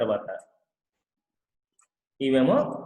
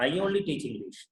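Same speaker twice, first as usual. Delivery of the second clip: very slow, word by word; slow classroom example; slow example sentence; 3 semitones higher, much slower than usual. Shown as a demonstration. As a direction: spell it out slowly for the class. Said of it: "teacher example sentence slowly".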